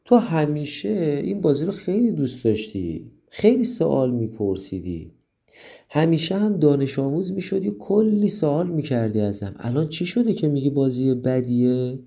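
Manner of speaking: wondering why her friend changed; surprised friend. Acted. Girl puzzled that her friend hates the game, lightly surprised. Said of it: "دلسا خیلی تعجب کرد و گفت".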